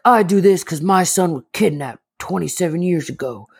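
a hint of a solemn TV host; lightly voiced crime-show host; imitating a serious show host, understated; grave TV host. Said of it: "he's like".

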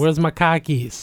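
put-on Boston accent. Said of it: "I'm gonna say with a Boston accent".

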